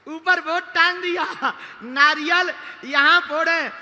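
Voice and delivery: high, loud, emphatic proclamation; shouted punchline. Real, not acted. Preacher hammers home the temple signboard joke, shouting. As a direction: shout it out to the crowd. Punchline repeated loudly to crowd.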